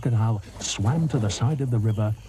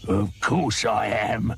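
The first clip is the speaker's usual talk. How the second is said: smug croc; slower than usual. Acted. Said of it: "said the crocodile".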